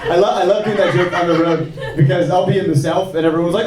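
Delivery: ordinary talk, nothing marked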